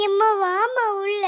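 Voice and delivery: acted whimper on long-held vowels; tearful pleading. Child calling mother inside during a quarrel, tearful. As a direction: coax mother away, half crying. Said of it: "அழுதுகிட்டு இருக்க".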